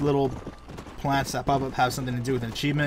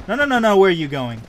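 calling after the horse; 3 semitones higher, 5 dB louder than usual. Real, not acted. Streamer yelling at his runaway horse, loud.

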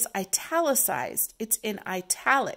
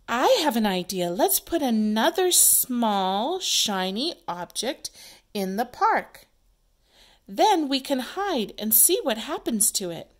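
acted play character; 3 semitones higher, 5 dB louder than usual. Teacher acting out play.

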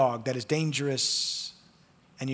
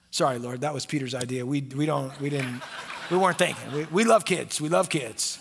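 sheepish apology. Acted. Disciples laughing nervously to Jesus, sheepish excuse.

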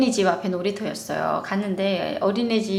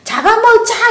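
loud, high playful growl; mock monster threat; 13 semitones higher, 9 dB louder, slower than usual. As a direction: threaten like a kid playing monster. Boys playing monster chasing toddler. (장난스러운 괴물 목소리로 크게)

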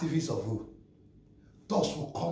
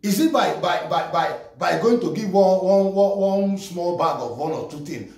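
louder heated rant; 3 dB louder than usual. Real, not acted. Vlogger berating an influencer's staged charity, heated. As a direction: tear into the show-off giveaways.

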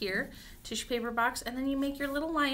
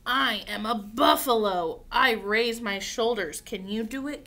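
bold picture-book read-aloud; reading to children; 3 semitones lower, 6 dB louder than usual. Acted. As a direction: read it out clearly and invitingly to little ones.

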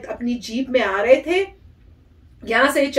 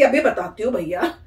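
pretend confrontation; 4 dB louder than usual. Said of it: "मैं कहती".

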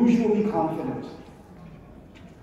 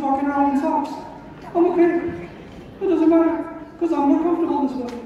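one of the listeners; 5 semitones higher than usual. Retold or imitated. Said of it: "This is one of you".

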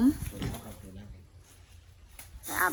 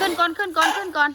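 urging command; 4 semitones higher, 4 dB louder than usual. Real, not acted. Urging elephant to climb up.

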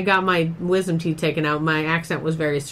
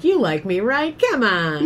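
coaxing, with "right?" pitched up; jokey fishing for approval; playful pleading; 4 semitones higher than usual. Acted. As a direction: wheedle for the crowd's approval. Cajoling an audience for approval.

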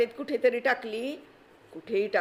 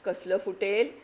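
scornful doubt. Acted. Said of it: "म्हणे".

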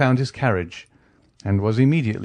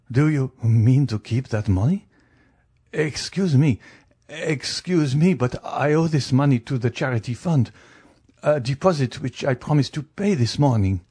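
mildly flustered banker, a little higher; flustered banker, lightly voiced; 4 semitones higher than usual. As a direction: plead politely as a worried banker. Banker pleads to keep money.

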